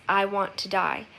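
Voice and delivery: a touch of weight on "I want to die"; emphasized line. Shown as a demonstration. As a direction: stress on "I want to die" with a falling end. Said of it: "Anne deliberately emphasizes".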